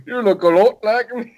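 a poor imitation of a British accent; mock British accent. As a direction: parrot the clumsy British accent for a laugh. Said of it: "her British accent is so bad".

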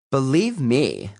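slow, high relishing vow; gleeful teen girl. Acted. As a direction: savor the promise of revenge. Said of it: "said the mall girl".

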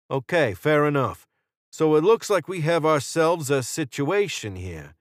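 cocky hostage-taker taking stock of the standoff; Jordan. A narrator's reading. Jordan sizing up the standoff with Israel, casually confident.

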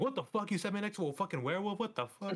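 imitating a freaked-out guy; freaking out. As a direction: panic like he's stuck next to a werewolf. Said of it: "It's like freaking out".

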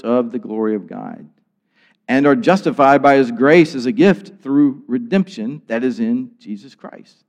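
measured, formal reading of the passage; scripture reading. Acted. Pastor reading Romans to the congregation, measured and formal. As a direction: read the verses aloud with weight. I'm just gonna read this.

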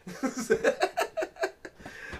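breathy, high laugh. Real, not acted. Host laughs at own stupid joke, breathy laughing. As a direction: crack up at your own joke.

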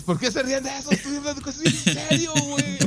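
indignant protest. Real, not acted. Complains they laugh at him.

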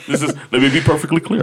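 a hint of a stiff politician; lightly voiced politician at a podium. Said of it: "You sound like a fucking politician".

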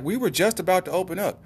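high-pitched mock lady at the shelter; white lady. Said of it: "some white lady opened the door".

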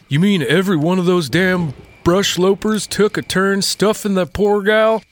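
lightly voiced old trapper; a hint of a gruff mountain man; Skins voice. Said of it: "in Skin's voice".

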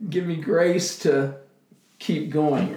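soft, broken tearful whisper of a prayer; barely voiced plea through tears. In a puddle on the floor in tears.

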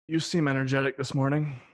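quiet, tired and drowsy. Acted. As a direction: sound worn out and sleepy. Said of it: "I'll try to sound tired".

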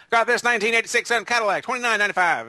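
high, eager dealer pitch; car salesman pitch. Retold or imitated. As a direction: rattle off prices like a TV ad. Imitating car dealer reeling prices.

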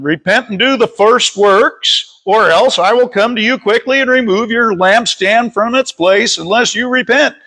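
emphatic, steady verse reading; scripture reading. Real, not acted. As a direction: read the warning out to a congregation. Reads scripture aloud to congregation.

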